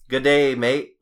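mock Australian "g'day mate"; Australian accent attempt. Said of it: "no, that's Australian".

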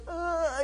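high panicky moan; mock freak-out. King seeing his hand withered, mock freak-out. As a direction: moan in pretend alarm. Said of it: "he's freaking out".

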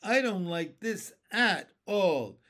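nervous little ladybug complaining. A narrator's reading. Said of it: "the ladybug said".

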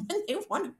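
high-pitched laugh breaking into the words. Real, not acted. Planner joking about clients who pay late, laughing. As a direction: let a laugh take over the phrase.

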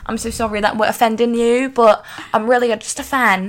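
lightly put-on British accent. Podcast host apologising to UK listeners, in a mock-British accent. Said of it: "we're gonna talk in your accent".

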